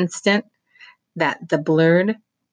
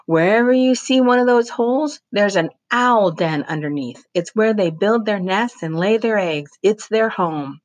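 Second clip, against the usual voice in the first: put-on higher, eager boy's voice; Roy challenging; 6 semitones higher than usual. A narrator's reading. Roy urging the crowd to check the owl holes, higher. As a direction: dare them to go look.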